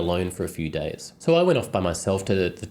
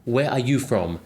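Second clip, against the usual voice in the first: higher, imitated Japanese-accented broken English; 4 semitones higher than usual. Japanese man questioning the French friend, imitated Japanese-accented English. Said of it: "asks me in broken English".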